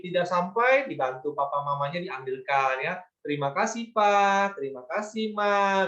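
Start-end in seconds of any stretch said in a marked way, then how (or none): 3.2-5.9 1 polite thanks to parents. Shown as a demonstration. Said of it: "Misalnya seperti itu ya".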